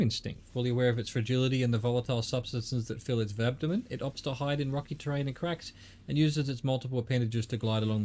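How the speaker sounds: reading aloud. Acted. Reads in-game bestiary entry.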